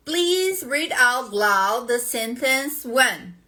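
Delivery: slow, even, lightly voiced machine prompt; computer prompt voice. Shown as a demonstration. Teacher imitates the computer in the English test, slow and even. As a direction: read it out like a test system instruction. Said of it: "O computador vai falar assim".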